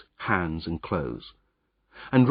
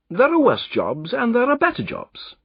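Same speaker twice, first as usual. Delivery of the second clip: put-on a much higher, strong Scottish roadman's accent. Disguised hero answers the agents in a strong Scottish accent. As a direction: play the Scottish roadman, unbothered. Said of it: "in Alexander Turnbull's strong Scottish accent".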